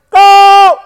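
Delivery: loud high blast of a command; commanding shout. Real, not acted. Preacher sending the congregation out, loud command. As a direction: send them out with one word.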